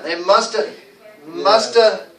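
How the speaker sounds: MUST HAVE linked as "musta"; reduced must have. Shown as a demonstration. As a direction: drill must have with have shrunk to "a". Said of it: "we don't even go the".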